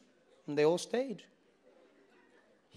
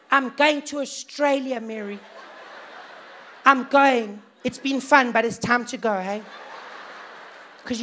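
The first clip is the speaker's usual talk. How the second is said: high, loud panicky voice; panicked white South African; 4 semitones higher, 3 dB louder than usual. Retold or imitated. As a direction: fret about emigrating, loudly.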